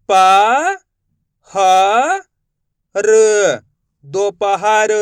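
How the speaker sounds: each syllable sounded out slowly with long pauses, then the whole word; teacher sounding out a word piece by piece for children; spelling out syllables. Shown as a demonstration. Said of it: "अपन direct मात्रा का उच्चारण करके पढ़ेंगे". (अक्षर अलग-अलग बोलकर धीरे-धीरे पढ़ना)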